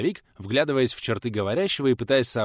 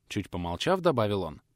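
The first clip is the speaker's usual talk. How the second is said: plain reading voice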